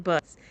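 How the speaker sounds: "buds" for birds, the r dropped; trouble saying birds. Shown as a demonstration. Confessing the one word they get teased for, birds pronounced "buds". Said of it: "I have trouble saying".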